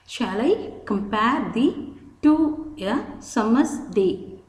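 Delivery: slow, pausing between "Shall I", "compare", "thee to", "a summer's day"; split into metrical feet. Shown as a demonstration. Teacher showing five sets of syllables in a Shakespeare line, slow and split into feet. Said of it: "we have five sets of syllables".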